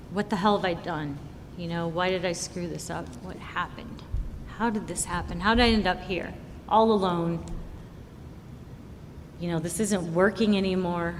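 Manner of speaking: quiet despair. Retold or imitated. Retold despair in motel room.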